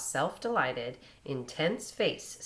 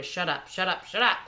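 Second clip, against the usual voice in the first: furious; 3 semitones higher, 5 dB louder than usual. A narrator's reading. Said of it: "His face was furious".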